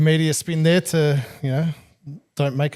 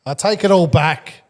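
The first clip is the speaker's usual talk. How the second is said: high, loud mock surrender; mock excited convert; 6 semitones higher, 6 dB louder than usual. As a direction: ham up joining the bandwagon.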